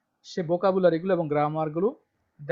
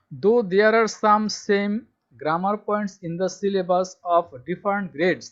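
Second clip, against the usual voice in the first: slow dictation reading; much slower than usual. Shown as a demonstration. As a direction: spell it out slowly for students to copy. Reading syllabus text aloud to class. (ধীরে ধীরে জোরে পড়ে শোনানো)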